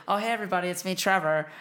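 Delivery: playing Trevor with a hint of German; German accent. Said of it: "I don't know why you make him German".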